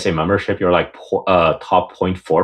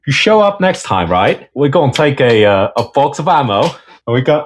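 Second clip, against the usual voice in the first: put-on failed Australian accent; 4 semitones higher than usual. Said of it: "I think you just went British".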